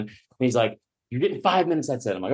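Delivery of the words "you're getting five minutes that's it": mock-stern ruling in a raised pitch; retold curt host. Host punishes late comic, mock stern. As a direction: imitate the host laying down the law, higher. Angry host cuts his set.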